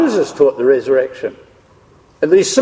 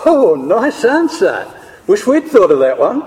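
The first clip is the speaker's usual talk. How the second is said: gleeful approval; 4 semitones higher than usual. Acted. Pharisees rub their hands as the Sadducees retreat, gleeful approval. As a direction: savour a rival's clever win, stretching the first words.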